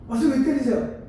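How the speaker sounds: high-pitched mock complaint; protesting student. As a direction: play a student objecting to being hit. Acted student protesting once more.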